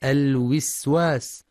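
"الوسواس" as al-wiswas; waw with kasra. Shown as a demonstration. Teacher showing a mistake, "الوسواس" as al-wiswas. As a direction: slowly put an i on the first waw of "الوسواس". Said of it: "بكسر الواو الأولى".

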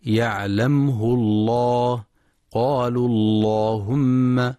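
slow recitation, the lam of الله in يعلمه الله thick after the damma; measured recitation with a thick lam in الله after a damma; heavy lam in Allah. Shown as a demonstration. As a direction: say قالوا اللهم slowly with a heavy, full lam. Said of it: "وإن سبقت بضم".

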